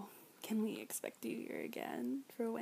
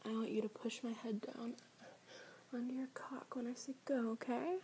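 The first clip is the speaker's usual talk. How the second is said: softer unvoiced whisper; 7 dB quieter than usual. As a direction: whisper the instruction close. Instructing in a whisper.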